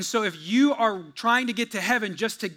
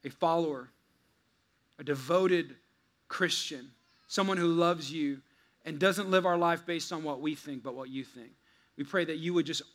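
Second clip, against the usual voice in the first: prayer. Acted. Pastor leads opening prayer.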